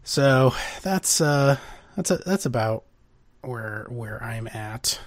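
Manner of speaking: stuffy nose, nasal cold voice. Real, not acted. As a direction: speak through a blocked nose. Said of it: "enjoy my nasally voice".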